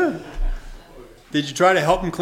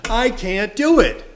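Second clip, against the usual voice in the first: louder, pleading cry of defeat; desperate cry; 2 semitones higher, 6 dB louder than usual. Retold or imitated. Preacher voicing a sinner crying out to God. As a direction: cry it out, beaten.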